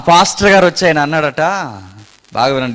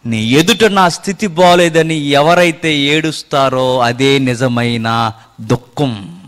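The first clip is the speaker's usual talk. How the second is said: humble prayer; slower than usual. Acted. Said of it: "దేవునికి ఇంపైన దుఃఖం".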